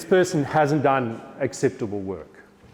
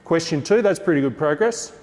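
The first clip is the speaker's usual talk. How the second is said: louder and higher, addressing the whole room; teacher voice to class; 5 semitones higher, 4 dB louder than usual. Shown as a demonstration. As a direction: project it across the classroom. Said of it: "So I'll talk like this".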